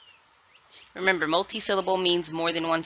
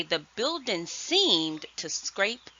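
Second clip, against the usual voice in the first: slow example sentence; 2 semitones higher, much slower than usual. Shown as a demonstration. Teacher reading an example sentence to first graders, slowly. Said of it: "for example, I would say".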